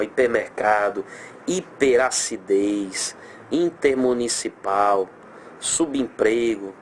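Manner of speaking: hipermercado, hiperacidez, intermunicipal, subemprego each said slowly; teacher slowly reading example words to the class; slow, spelled out. Shown as a demonstration. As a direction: read the examples out one by one, unhurried. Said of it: "same word list repeated".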